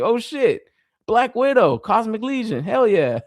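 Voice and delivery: high-pitched fan excitement; hyped self-quote. Retold or imitated. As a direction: play up the thrill of a cool reveal. Re-enacting hype before the letdown.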